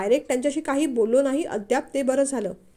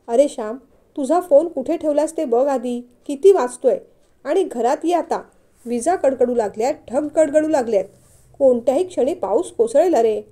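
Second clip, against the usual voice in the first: mother calling out; 8 dB louder than usual. Acted. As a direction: call him in before the rain. Mother calling son indoors. (आई मोठ्याने हाक मारते)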